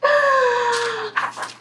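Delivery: high, long descending mock scream; sliding wail of a falling storybook character. Sound of the bird falling.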